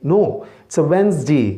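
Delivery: Wednesday slowly ending in dee, not day; slow careful Wednesday; correct ending. Shown as a demonstration. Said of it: "डे भी नहीं बोलना".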